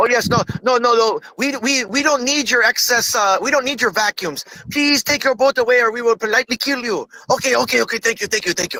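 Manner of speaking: put-on Japanese accent, overly polite. Imitating a polite refusal to outsiders: put-on japanese accent. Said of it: "your Japanese man accent Mexican".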